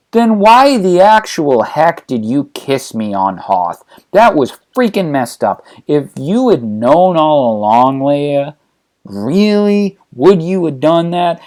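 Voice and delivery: slow, stressed indignation; indignant. Acted. Brother confronting sister over their kiss, indignant. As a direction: press each accusation, drawing out key words.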